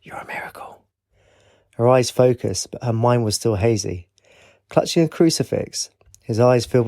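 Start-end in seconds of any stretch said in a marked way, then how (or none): 0.0-0.8 soft unvoiced whisper; hushed whisper of wonder. A narrator's reading. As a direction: whisper it in awe. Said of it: "whispered again".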